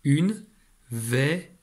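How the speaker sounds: une lifted, verrue with open è; say it together. Shown as a demonstration. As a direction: model the word for a child to repeat. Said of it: "répète avec moi".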